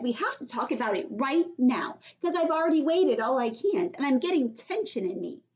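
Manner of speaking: put-on high, loud little girl yelling for help; Junie B. yelling. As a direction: cry for help like a panicked kid. Junie insists to Daddy.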